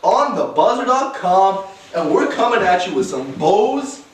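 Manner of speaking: high, slow announcer voice; hype host intro. Acted. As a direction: open the show big.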